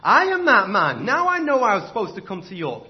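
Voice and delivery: loud ringing declaration; cried out. Acted. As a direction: shout it across the courtroom. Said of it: "Sir Roger cried out".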